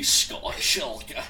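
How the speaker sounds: put-on light Scottish accent; a hint of Scottish brogue; Scottish accent attempt. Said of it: "I can try my Scottish accent".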